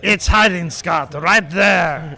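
put-on slow, drawn-out French-accented reading; French character voice, unhurried. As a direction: read it slowly with a fake French accent. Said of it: "another voice we can't understand".

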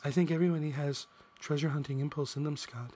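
man lightly voicing a woman; a hint of a woman's voice, laughing; girl voice. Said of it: "It's a lousy girl voice".

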